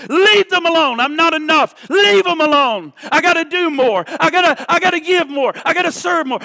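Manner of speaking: commanding rebuke. Acted. Hear the voice of the Holy Spirit today, say.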